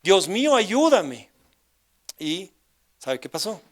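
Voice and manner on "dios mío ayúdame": louder, higher imitated cry for help; retold desperate cry. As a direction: call out to God, stopping short of a scream. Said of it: "pero como grité esa, esa tarde". (grito de súplica imitado)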